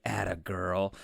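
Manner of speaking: low, soft murmur imitating a whisper; retold whisper. Vampire to the girl he cornered in the club, retold whisper. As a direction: say it low and hushed, as if into an ear. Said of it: "whispers in her ear".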